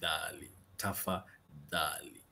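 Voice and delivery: "Tafadhali" slowly, voiced th in "dhali"; careful demo of "Tafadhali" with dh as in "this"; dental dh. Shown as a demonstration. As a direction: stretch "Tafadhali", tongue between the teeth on dh. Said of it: "Tongue between your teeth".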